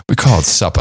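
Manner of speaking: lightly mimicked Old South accent, supper without its R; Southern accent. Host repeating the rancher's correction, light Southern accent. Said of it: "he piped up and said".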